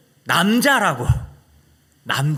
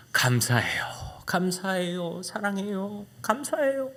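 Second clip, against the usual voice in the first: soft, whispered gratitude; tearful thanks; 4 semitones higher, 4 dB quieter, slower than usual. Retold or imitated. Weeping boy thanks God, soft whisper. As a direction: murmur thanks through tears.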